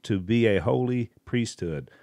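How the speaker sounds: slow, measured reading of scripture. Acted. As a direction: read the verses slowly and deliberately. Reads scripture passage aloud.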